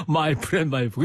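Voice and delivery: lightly imitated Gyeongsang-accented English; a hint of Gyeongsang dialect in the English. Retelling the singer's only English at immigration, Gyeongsang accent. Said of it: "그래가지고 이 경상도 사투리로".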